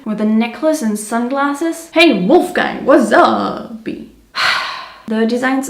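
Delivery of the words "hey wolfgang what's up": lightly voiced gangster hail, swinging pitch; mock gangster greeting. Greeting an imagined gangster wolf, mock street swagger.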